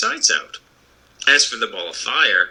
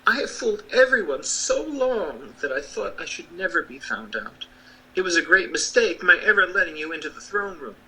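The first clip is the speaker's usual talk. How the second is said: little man voice; 6 semitones higher than usual. Acted.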